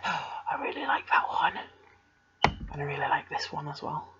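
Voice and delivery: soft whispered delight; gasp then whisper. Real, not acted. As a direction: breathe it out admiringly. Admiring lipstick softly.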